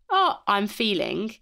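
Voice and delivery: slow, thoughtful start of a real answer; considered reply. Shown as a demonstration. Pausing before answering how are you, slow and considered. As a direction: take your time, weigh the words. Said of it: "Actually pausing before you respond".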